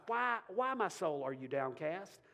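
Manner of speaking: rising fervent recitation; preacher reading Psalm forty-two aloud; scripture reading. Acted. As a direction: read the psalm with mounting fervor. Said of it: "Verse five".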